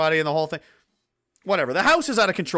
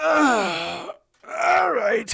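fed-up dad, polite; 6 semitones higher, much slower than usual. Acted. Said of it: "He just politely goes".

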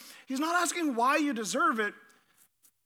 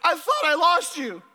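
quoting sobbing son; 4 semitones higher, 4 dB louder than usual. Retold or imitated. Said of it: "He said".

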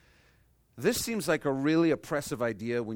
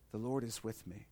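soft repeat; 3 semitones lower, 11 dB quieter than usual. Shown as a demonstration. Second take, dropping softer.

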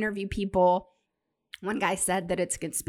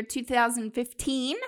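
slow emphatic; 4 semitones higher, much slower than usual. Acted. Dragged-out years for emphasis.

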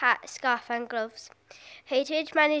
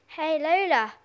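raised-pitch call to get attention; shouting; 4 semitones higher, 4 dB louder, slower than usual. A narrator's reading. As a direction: call out to a friend. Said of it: "shouted Mark".

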